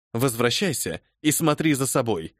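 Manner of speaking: stern. Acted. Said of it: "сурово ответила леди Одли".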